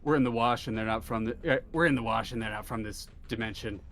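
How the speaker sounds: lightly voiced matter-of-fact character; slightly low, offhand report to colleagues; Heatsink. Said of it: "you hear Heatsink go".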